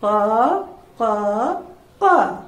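short cawing calls like a crow. Shown as a demonstration. Teacher shows class the crow's sound, cawing. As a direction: caw like a crow for the children. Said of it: "ഉറാബ് എങ്ങനെയാണ് sound ഉണ്ടാക്കുക?".

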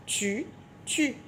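"tu", short pause, "tu", each syllable alone. Shown as a demonstration. Teacher confirming two syllables in tutu, syllable by syllable. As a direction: separate the two "tu" syllables evenly. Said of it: "Deux syllabes".

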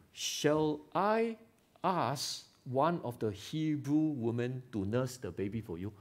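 gently courteous, unhurried asking; polite request. Shown as a demonstration. Preacher demos a polite offer to the princess, gently courteous. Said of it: "So polite".

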